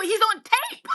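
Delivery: high-pitched, laughing exclamation. Real, not acted. Co-host recalls a politician caught on tape, laughing. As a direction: break up laughing while talking.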